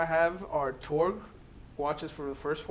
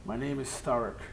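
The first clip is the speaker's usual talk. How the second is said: underbite orc voice; 3 semitones lower than usual. Acted. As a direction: lower jaw pushed forward. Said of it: "I have to push my lower jaw forward for, for the proper orc".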